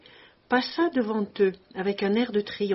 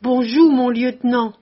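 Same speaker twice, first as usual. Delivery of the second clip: a big joyful shout that makes the café laugh; booming comic greeting; 3 semitones higher, 9 dB louder than usual. A narrator's reading. Giant greeting the officers with a loud, beaming shout. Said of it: "d'une voix qui fit rire toutes les tables".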